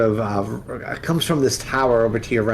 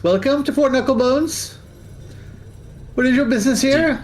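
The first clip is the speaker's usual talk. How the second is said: squeaky eager skull calling hello; Barnabas the flaming skull. Acted. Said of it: "He goes".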